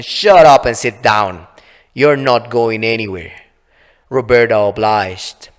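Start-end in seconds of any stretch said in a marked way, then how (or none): 0.0-3.3 stern command. Acted. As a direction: lay down the law. Laura orders the fairy.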